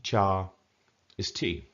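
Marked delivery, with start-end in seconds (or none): 0.0-0.5 "Cha" on an even, level note; flat tone. Shown as a demonstration. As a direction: keep "Cha" level all through. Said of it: "flat tone".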